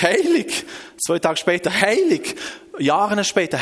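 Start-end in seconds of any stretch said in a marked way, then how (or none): 0.0-0.6 high-pitched cry of praise; awed call. Retold or imitated. Heavenly beings calling before God, high awed call. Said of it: "sie hat gerufen". 1.8-2.4 high cry of praise; awed call. Retold or imitated. The same praise days later, high awed call. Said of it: "sie hat gerufen".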